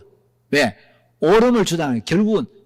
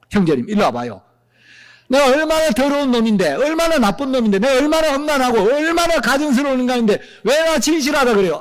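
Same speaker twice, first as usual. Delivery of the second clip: raised, insistent self-accusing protest; indignant protest; 4 semitones higher than usual. Acted. Preacher voicing a believer who rejects praise, indignant and raised. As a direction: protest being praised, voice pitched up.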